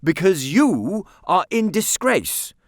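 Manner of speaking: slow, high, loud and lofty. A narrator's reading. Aunt to Nicholas, loftily. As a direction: talk down to the child. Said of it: "said the aunt loftily".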